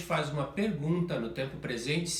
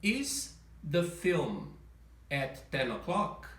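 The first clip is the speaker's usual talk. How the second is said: slow question rising on o'clock; slow rising question melody; question intonation; much slower than usual. Shown as a demonstration. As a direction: lift the end, slowly. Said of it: "inverte-se pelo sujeito da frase".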